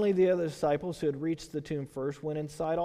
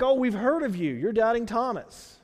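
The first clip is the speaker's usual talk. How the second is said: higher, louder mock Indian accent; 4 semitones higher, 5 dB louder than usual. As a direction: repeat the greeting in a light Indian accent. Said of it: "the only kind of sort of accent I can do".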